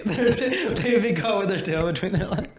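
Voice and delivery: laughing while making the joke. Real, not acted. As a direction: giggle out the words.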